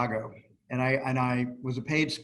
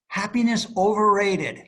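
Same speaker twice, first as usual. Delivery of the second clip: higher, louder punchline in an imitated Bhutanese accent; driver's Bhutanese accent; 7 semitones higher, 6 dB louder than usual. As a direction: deliver the driver's deadpan line in his Bhutanese accent. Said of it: "he had an accent".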